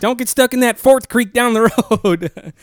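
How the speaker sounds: high, slow mock warning voice. Teasing a friend about the creek, in a high mock-warning voice. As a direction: warn them like a spooky local.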